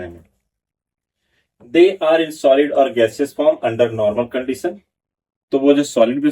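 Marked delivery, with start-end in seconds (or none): 1.7-4.8 slow, deliberate dictation pace; slow note dictation to a class; dictating notes. Acted. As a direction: spell it out slowly for note-taking.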